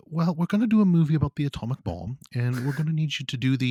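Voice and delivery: a light put-on British accent; a hesitant try at a British accent, voicing the director. Voicing Nolan to his composer, in a light British accent. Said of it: "I don't know if I can do the British accent".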